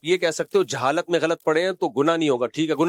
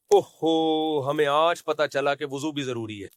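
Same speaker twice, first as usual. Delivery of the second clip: mock dismay. Preacher acting out the man's next clip, mock dismay. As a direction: imitate sudden regret, hammed up then subsiding. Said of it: "اب یہ clip بنائے گا".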